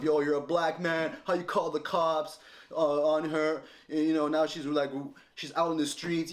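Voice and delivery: mock the family's accusing pitch; imitating family. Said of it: "the angle of".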